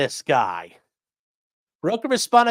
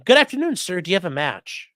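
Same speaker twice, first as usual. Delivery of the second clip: high, loud hammed-up spy greeting; movie spy challenge phrase; 5 semitones higher, 5 dB louder than usual. Mocking movie spy challenge phrases, high and hammy. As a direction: play a cheesy movie spy on "Good afternoon". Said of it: "a joke when you watch movies".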